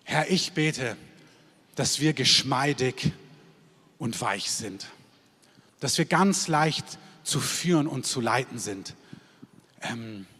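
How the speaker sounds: measured prayer with long pauses between phrases; leading a prayer. Real, not acted. Preacher praying for the standing congregation to be pliable, prayerful. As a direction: pray aloud slowly, letting each phrase settle. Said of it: "Ich möchte das einmal kurz beten".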